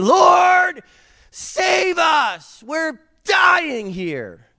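high, loud, desperate shout; panicked shout. Retold or imitated. Disciples shouting at the sleeping Jesus, high and loud. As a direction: cry out like drowning men. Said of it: "They wake him up saying".

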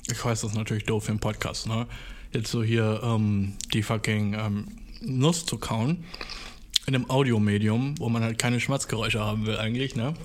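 talking around a nut in the mouth; mouth full. Real, not acted. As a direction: speak with something in your cheek. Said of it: "in meinem Mund behalten". (mit vollem Mund)

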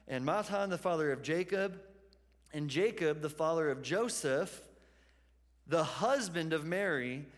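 measured reading of a genealogy; scripture reading. Real, not acted. Pastor reads the passage to the congregation, scripture reading. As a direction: read the list of names in an even, repeating cadence.

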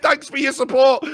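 high and loud mocking quote; shouted mocking thanks. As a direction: shout it back in scorn.

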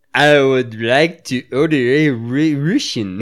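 put-on hammy Russian accent, slowed down; lightly voiced Russian accent. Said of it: "use your Russian accent to order a White Russian".

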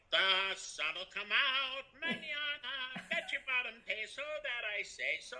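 high, slow plucky orphan singsong; Little Orphan Annie. Retold or imitated. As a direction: belt it like a hopeful orphan. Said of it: "doing his impression of, uh, uh, Little Orphan Annie".

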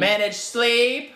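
high, slow, shouted order; loud sharp voice. Retold or imitated. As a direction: bark it out like a drill sergeant. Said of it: "Why are you yelling?".

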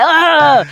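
imitated groan of a disgusted son; mock exasperated "ugh"; upset groan. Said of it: "he was so upset".

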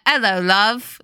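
mock Cockney villain greeting; Cockney accent. Shown as a demonstration. Host demonstrating the villains' accent, mock Cockney. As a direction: do an up-to-no-good Cockney. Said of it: "They have that accent".

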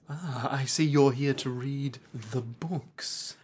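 mock condescension. Mocking monk repeating the words.

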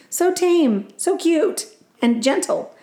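high, cooing mock praise; gushing lady. A tourist lady coos at the tame bear, high and gushing. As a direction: swoon over each word. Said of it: "exclaimed one of the ladies".

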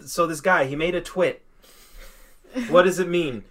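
mild mock dad asking for help; clueless dad. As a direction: lightly play a dad calling his son over. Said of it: "that's such a dad thing".

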